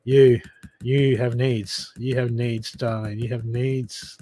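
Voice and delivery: a hushed, tender reassurance; tender card voice. Acted. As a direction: gently tell her she has needs. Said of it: "this card is like".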